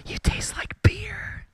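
high breathy whisper. Acted. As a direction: whisper it close and slow. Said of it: "he whispered into my neck".

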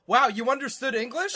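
loud hammed-up wow; mock amazement. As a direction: gasp it like a dumbfounded doctor. Mocking Jack's reaction.

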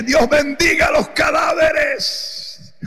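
grito burlón imitado, muy lento y medio cantado; grito fingido. Retold or imitated. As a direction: imita cómo gritó lento desde la calle. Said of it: "yo grité desde allá afuera". (el pastor grita en broma a la hermana desde afuera, lento y cantado)

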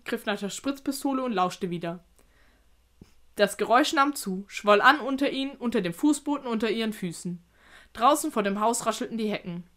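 measured storytelling that swells on key words; suspenseful narration. A narrator's reading. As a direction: build the menace as you read.

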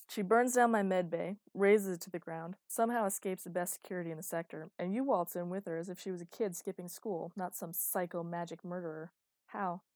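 loud, exasperated rant; annoyed rant. Acted. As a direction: vent the outrage loudly. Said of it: "huffed in annoyance".

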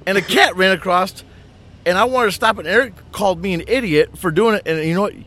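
put-on high, loud gushing girl voice; mimicking Tiff. Mimicking Tiff gushing to her coworker, high and loud. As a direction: gush it out like an excited friend.

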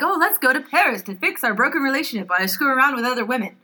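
a touch of sarcastic imitation of a cheating husband; mocking the husband. Skeptic quoting Olive's husband on Paris, lightly mocking. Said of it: "He's like".

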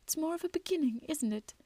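lightly acted tearful hope; brave smile. A narrator's reading. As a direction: put a brave face on it. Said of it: "smiled bravely".

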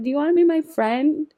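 high-pitched friendly plea; high, eager retold question; drunkenly friendly. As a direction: act out a naive, tipsy overture. Retelling own drunk friendliness.

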